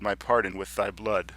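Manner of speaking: earnest, measured sonnet reading; formal verse with pauses at line ends; poetry recitation. Acted. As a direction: recite it as a deliberate plea in verse. Recites the sestet.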